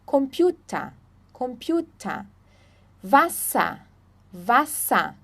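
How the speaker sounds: "Computer", "Wasser" ending in A, no R. Shown as a demonstration. Teacher drilling final ER, "Computer", "Wasser" ending in A. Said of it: "Como se não tivesse o E R".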